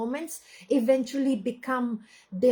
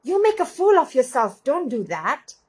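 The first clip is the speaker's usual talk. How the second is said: mocking inner critic; 3 semitones higher, 5 dB louder than usual. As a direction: scold yourself like a harsh inner voice.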